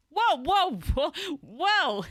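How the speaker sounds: high, loud mock alarm; alarmed halt. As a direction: call a startled halt. Retold halting of the accusers.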